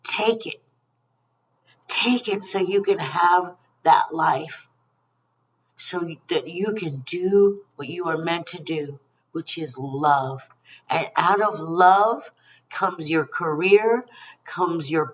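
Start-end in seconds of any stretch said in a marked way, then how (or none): 0.0-10.5 gentle spirit voice. Retold or imitated. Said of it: "Spirit is here saying".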